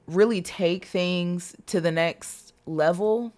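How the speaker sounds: slow, drawn-out words with a light Southern twang; slight Southern twang. Real, not acted. Tarot reader to viewers on their love timeline, light Southern twang. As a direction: let a touch of Southern twang slip in, slowly. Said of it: "Got a little Southern twang coming into my voice there".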